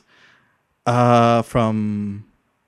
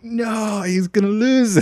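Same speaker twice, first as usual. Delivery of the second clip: mock disbelief; 10 semitones higher, much slower than usual. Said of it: "I was like".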